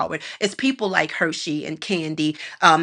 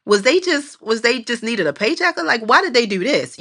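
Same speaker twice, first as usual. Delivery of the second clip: high incredulous asking; mock puzzled rant; baffled questioning; 3 semitones higher than usual. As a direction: sound baffled at the A-listers. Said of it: "and you like".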